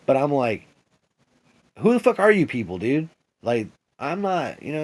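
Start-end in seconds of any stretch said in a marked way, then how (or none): 1.8-3.1 higher, louder demand to those people; retold outburst. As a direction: fling the question at them in disbelief.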